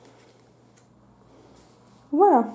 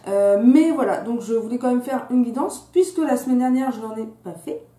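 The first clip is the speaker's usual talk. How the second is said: slight lisp from a fresh tongue piercing; lisping on the s sounds. Real, not acted. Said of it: "il est fort probable que je zozote".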